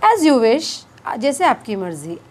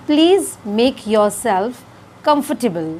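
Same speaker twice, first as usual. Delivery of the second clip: very slow teaching demo; much slower than usual. Shown as a demonstration. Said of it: "तो English में हमें इसे कहना है".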